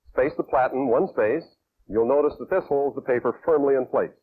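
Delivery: ordinary talk, nothing marked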